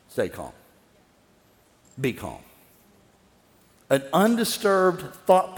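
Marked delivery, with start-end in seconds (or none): 0.1-2.4 much softer, lower calming words; calm self-talk. Shown as a demonstration. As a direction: settle yourself down quietly. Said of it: "I'm gonna stay calm".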